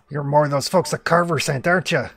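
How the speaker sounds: loud, quick Australian hermit; heavy Australian accent. Acted. Suspicious hermit accusing the newcomers, in a loud Australian accent. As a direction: accuse them in broad Australian. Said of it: "very heavy Australian accent".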